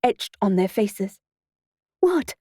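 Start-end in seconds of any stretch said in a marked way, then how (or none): 2.0-2.3 high, sharp-falling exclamation; mild shout in a raised pitch. A narrator's reading. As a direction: call it out high, dropping at the end. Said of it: "shouted Simone".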